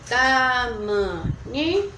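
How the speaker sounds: "Tamanhinho" slowly split into distinct syllables. Shown as a demonstration. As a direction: count out "Tamanhinho" one stretched syllable at a time. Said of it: "quantas sílabas nessa palavra". ("Tamanhinho" bem devagar, sílaba por sílaba)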